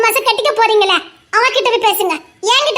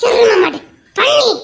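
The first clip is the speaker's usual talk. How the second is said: mock angry shout. Yelled insult, playful anger.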